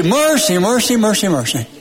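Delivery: a hint of grandmother, rolling repeats tumbling downward; imitated grandmother's refrain. Preacher recalls what grandmother would say, imitated rolling refrain. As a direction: start lifted and let the repeats run down. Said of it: "then she'd say".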